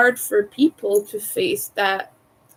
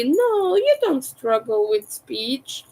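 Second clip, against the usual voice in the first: dismissive reassurance; 3 semitones higher, slower than usual. Retold or imitated. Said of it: "that's very dismissive".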